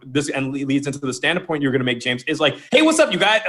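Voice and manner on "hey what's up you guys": high, loud comic greeting; humorous tone. Shown as a demonstration. Coach showing James a stand-up opener, humorous and high. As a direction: open like a disarming comic, pitched up. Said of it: "there's even the humeric tone".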